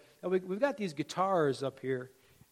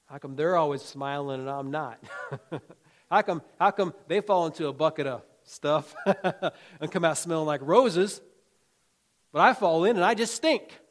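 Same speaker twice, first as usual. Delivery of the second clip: mock grumbling complaint, getting louder; envious whining; 6 dB louder than usual. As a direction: whine like a jealous churchgoer. Mimics envious person's complaint.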